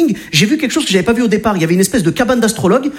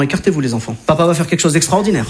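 solemn boast; 5 semitones lower than usual. Retold or imitated. Dad boasts before punch.

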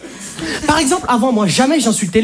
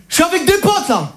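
higher, tough front that collapses into sweetness; fake tough guy; 8 semitones higher than usual. A man on the phone to his girlfriend in front of friends, tough then meek. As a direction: start as a hard man then melt. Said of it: "Je vais vous montrer".

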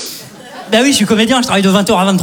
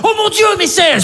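mock awed gasp; 10 semitones higher than usual.

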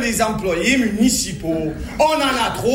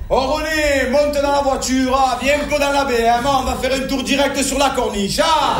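full, easy Marseille accent; lively Marseille street accent; 3 semitones higher than usual. Shown as a demonstration. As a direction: call out to a pal in a southern Marseille accent. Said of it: "Alors qu'avec l'accent".

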